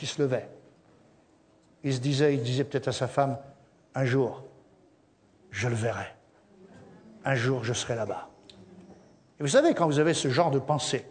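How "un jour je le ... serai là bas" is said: hopeful murmur. Acted. Caleb musing to his wife.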